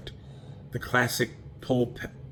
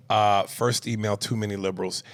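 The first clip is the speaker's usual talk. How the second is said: disappointed voice. Pretend. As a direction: sound let down by the email. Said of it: "I'm in my disappointed voice".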